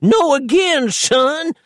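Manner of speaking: put-on high, desperate old man scream. A narrator's reading. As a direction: scream it in panic. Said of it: "screamed the paralysed dangler".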